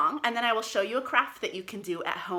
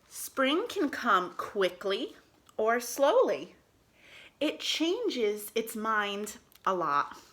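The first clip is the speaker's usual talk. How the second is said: slow storybook reading aloud; reading to children; slower than usual. Acted. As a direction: read it slowly to little kids.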